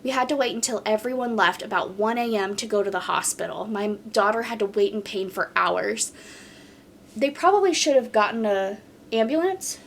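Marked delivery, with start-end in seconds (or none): 0.0-6.1 even, flowing reading of a post; story read-aloud. Acted. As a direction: read the account straight through, steadily. Reads a submitted story aloud.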